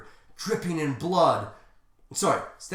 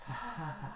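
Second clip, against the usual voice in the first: faint acted laugh; soft breathy chuckle from a dying hero; feeble, quiet laugh; weak dying laugh; 12 dB quieter than usual. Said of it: "Sonic is laughing".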